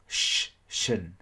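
"sh-" held, then "shin"; sh sound. Shown as a demonstration. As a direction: curl the tongue up for sh in "shin". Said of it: "chúng ta phải cong lưỡi lên".

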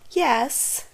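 put-on high squeaky girl voice; squeaky disguised voice. A narrator's reading. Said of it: "squeaked Clara".

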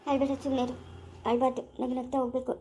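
low, soft soothing; gentle consoling. Acted. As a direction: quietly comfort someone in tears. Soothing the weeping bride. (ಮೃದುವಾಗಿ ಸಮಾಧಾನ)

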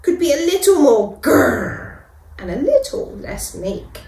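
small, high mouse wishing to be braver; a shy little mouse dreaming out loud; timid mouse voice. Acted. Tiny mouse wishing to be brave, small and high.

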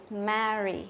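"Marry" with a wide æ; flat E sound. Shown as a demonstration. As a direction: open the A of "Marry" as in "cat". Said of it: "phải đọc thành âm E bẹt".

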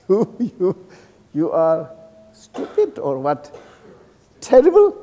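jab the words at the monk, mildly scornful; mock insult. Heckler insulting the monk, mock scornful jab. Acts out someone insulting him.

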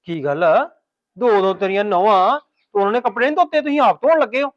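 can't believe she's doing it herself; surprised and indignant. Acted. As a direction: son to mother, loud and astonished. Son shocked mother washes clothes.

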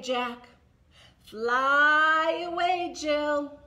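very slow, drawn-out rhyme; finger play rhyme. Shown as a demonstration. Librarian repeats the blackbird rhyme with the toddlers, very slow. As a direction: spin it out slowly for toddlers. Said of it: "Can we make these be our blackbirds?".

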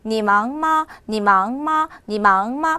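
conversational-speed tone drill of 你忙吗; quick half third tone. Shown as a demonstration. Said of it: "반삼성 개념 들어가 있죠".

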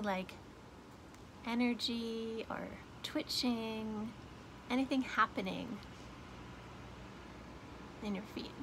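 softly paced with long pauses; guided meditation. Shown as a demonstration. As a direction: guide the listener gently through noticing sensations.

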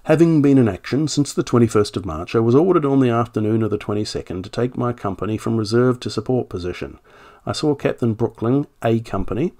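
reading an officer's statement in a light generic British accent. Shown as a demonstration. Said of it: "just do a generic accent".

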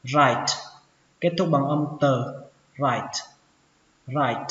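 "write" starting straight on r; silent W. Shown as a demonstration. Teacher showing learners the silent W in "write". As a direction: say "write" as "rait", ending on t. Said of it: "âm W nó không tồn tại".

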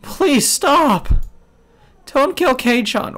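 very high, loud pleading; high-pitched frantic scream; desperate wail. Acted. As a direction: wail for mercy at the top of your range. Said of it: "rattled the iron bars as she wailed".

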